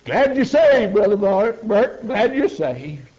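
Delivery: the whole forest shouting for joy, slow on the end; pine trees rejoicing. Retold or imitated. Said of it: "every one of them seemed to be saying".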